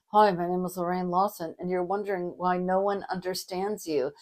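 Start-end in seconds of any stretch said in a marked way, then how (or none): 0.1-1.5 low, tight, jaw-clenched intro; through gritted teeth. Shown as a demonstration. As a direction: speak without opening the jaw. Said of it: "you're talking through your teeth".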